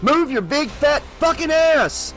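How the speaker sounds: high, loud furious shriek; Breaker shrieking. Acted. Breaker shrieks at Geraldine to move, furious. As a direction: shriek at her in rage. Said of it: "Breaker shrieked".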